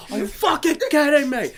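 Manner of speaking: high-pitched imitation of an angry chef; exasperated chef, hammed up; incredulous mock rant; mock exasperated outburst.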